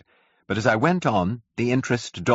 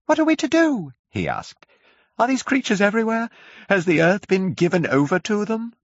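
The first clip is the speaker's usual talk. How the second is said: high, louder, frantic questions; frantic curate; 4 dB louder than usual. A narrator's reading. Terrified curate begs the narrator, high and frantic. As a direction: pour out panicked questions. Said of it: "like one demented".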